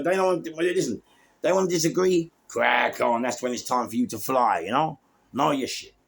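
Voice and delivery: ordinary talk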